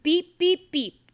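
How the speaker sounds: loud, high playful beeps; bright horn beeps; truck horn. Acted. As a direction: honk like a little truck. Truck horn sound in story.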